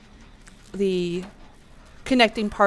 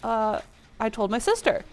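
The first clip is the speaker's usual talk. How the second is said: sheepish; 7 dB quieter than usual. Retold or imitated. Child answering angry dad.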